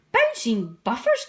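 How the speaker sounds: a mild startled exclamation; startled cry. Acted. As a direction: blurt it out in surprise. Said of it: "cried Percy".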